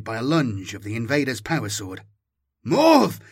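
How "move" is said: sharp, high, loud yell of warning; shout. Acted. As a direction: bark the order to clear out. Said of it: "shouted the battlesuit pilot".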